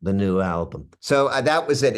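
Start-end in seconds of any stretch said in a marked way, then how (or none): 0.0-0.9 put-on refined London accent; smoothed-out Cockney with a little rasp; posh-leaning London impression; a singer. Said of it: "this Bowie".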